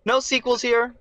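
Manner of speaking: half-joking, half-laughing; playful laughing pitch; laughing tease. Real, not acted. Playful mock movie-tagline delivery.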